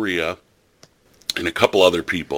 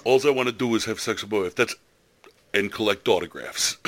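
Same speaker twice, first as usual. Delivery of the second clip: put-on New York accent. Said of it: "That's why I did the accent".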